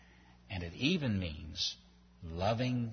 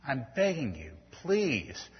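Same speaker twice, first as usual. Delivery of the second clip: pleading parent; 3 semitones higher than usual. Retold or imitated. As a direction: plead gently, heart breaking. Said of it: "you start pleading with them".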